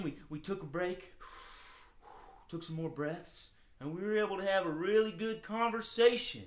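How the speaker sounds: a hint of an easygoing hound character; friendly hound dog. Calmed dog thanking children for helping, friendly hound voice.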